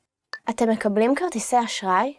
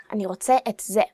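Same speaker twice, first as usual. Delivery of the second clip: emphasis landing on זה; stress on זה; much faster than usual. Shown as a demonstration. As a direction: lean on the word זה at the end. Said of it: "you should emphasize the word".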